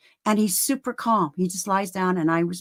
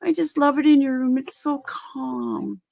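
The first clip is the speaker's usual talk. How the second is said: admiring quote; 4 semitones higher than usual. Retold or imitated. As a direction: start high, then stretch and soften the ending. Assistants' admiring remark acted out.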